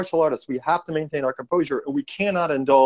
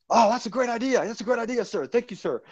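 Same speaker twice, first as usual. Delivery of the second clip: put-on higher, eager young private thanking his officer; eager soldier; 6 semitones higher, 4 dB quieter than usual. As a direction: gush with eager thanks, pitched up. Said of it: "And he's all eager".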